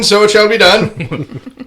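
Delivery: slow, high and loud like a royal proclamation; mock solemn decree. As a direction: pronounce it as an ancient law, dragging it out. Mock solemn decree after rule.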